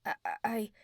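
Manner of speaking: halting, stuck on "I"; a mild, lightly acted stammer. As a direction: trip over the words, dazed. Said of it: "I stammered".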